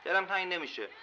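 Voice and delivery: short shouted outburst; sudden shout. Acted. Angry patient shouting to the nurse that he won't miss it. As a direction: blurt it out in a shout. Angry man blurts a line.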